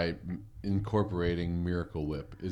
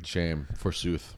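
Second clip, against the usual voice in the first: mock archaic voice; 5 semitones lower, 3 dB quieter, slower than usual. Mock old-English reply.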